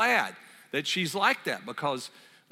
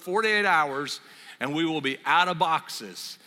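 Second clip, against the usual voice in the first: louder, mock-proclaimed house rule; emphatic retold decree; 4 dB louder than usual. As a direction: lay down the law as the wife, playfully. Repeats wife's rule, acted.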